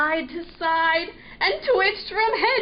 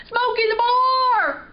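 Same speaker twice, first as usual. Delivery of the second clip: higher, louder punchline; joke punchline; 8 semitones higher, 5 dB louder than usual. A narrator's reading. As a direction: deliver the punchline with glee. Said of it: "He giggled when he said it".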